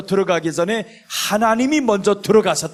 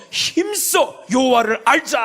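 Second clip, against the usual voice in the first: higher, slow ringing shout; proclaimed verse; 7 semitones higher, slower than usual. Shown as a demonstration. Preacher proclaiming Hosea's verse to the church, slow ringing shout. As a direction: call the verse out with force. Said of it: "호세아 육 장 삼 절에서".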